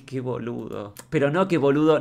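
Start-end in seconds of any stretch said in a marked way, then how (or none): 0.0-0.9 softer sigh. Shown as a demonstration. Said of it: "te lees y decís". 1.5-2.0 louder affectionate. Shown as a demonstration. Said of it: "no lo digo mal".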